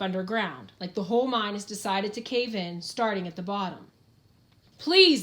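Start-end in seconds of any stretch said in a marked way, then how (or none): 4.8-5.2 a high, loud drawn-out groaned please; pinned man groaning for help. Acted. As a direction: beg through the pain, much higher and louder. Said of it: "the Undertaker groans".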